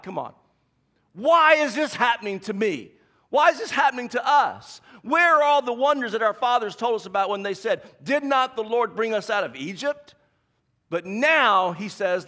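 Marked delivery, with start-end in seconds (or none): 1.1-10.1 demanding why, raised and pressing; louder, indignant why. Retold or imitated. A believer challenging God with louder, indignant why. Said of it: "asked the word why to God".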